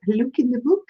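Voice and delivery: half-hearted British accent; attempted British accent. Shown as a demonstration. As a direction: try a British accent and miss. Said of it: "like you British folks do".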